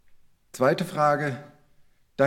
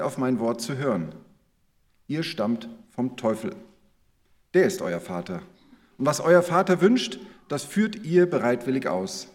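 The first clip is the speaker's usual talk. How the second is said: measured, solemn reading of the Gospel; scripture reading. Acted. Preacher reads the Gospel text to the congregation, solemn reading. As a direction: read the passage to the congregation. Reads the Bible passage aloud.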